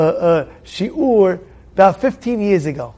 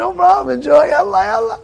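higher, offhand no-problem tone; breezy reply; 8 semitones higher than usual. Retold or imitated. Rabbi answering the grateful learners, breezy and much higher. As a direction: shrug it off cheerfully. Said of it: "I said".

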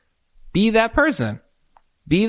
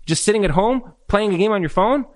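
higher, belittling wife's nagging; a wife mocking her husband, higher and scornful; 5 semitones higher than usual. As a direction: needle him with scornful questions.

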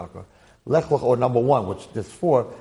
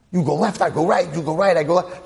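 curt split; 6 semitones higher, 4 dB louder than usual. Retold or imitated. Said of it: "Avram doesn't talk like this".

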